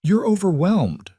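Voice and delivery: gentle. A narrator's reading. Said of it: "Ryan said gently".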